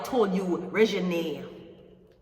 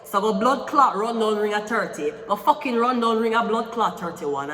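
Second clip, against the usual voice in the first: scolding rant; 3 dB louder than usual. Real, not acted.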